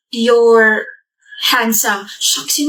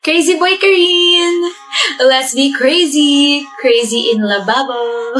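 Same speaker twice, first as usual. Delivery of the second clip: playful shout; much slower than usual. Acted.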